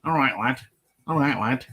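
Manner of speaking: light Liverpool Scouse imitation; Scouse accent. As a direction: do a Liverpool Scouse "all right lad". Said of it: "We talk like that".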